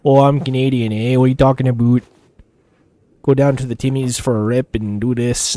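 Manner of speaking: mock Canadian hoser accent; Alberta-style Canadian hoser talk. Shown as a demonstration. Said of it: "like, the hoser accent".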